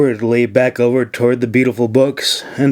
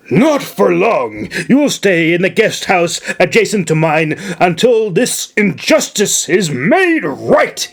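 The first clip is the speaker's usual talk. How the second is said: vowing governor; 5 semitones higher than usual. Acted. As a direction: swear to set it right. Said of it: "he vowed".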